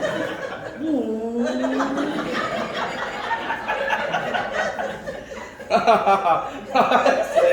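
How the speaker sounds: long, drawn-out fit of laughing; laughter. Real, not acted. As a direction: keep laughing helplessly. Joking about being carried along. (ketawa panjang berdekah-dekah)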